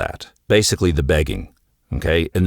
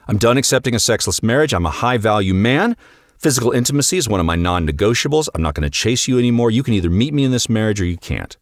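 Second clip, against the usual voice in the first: fake confident speech; 3 semitones higher, faster than usual. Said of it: "he's gonna walk in there".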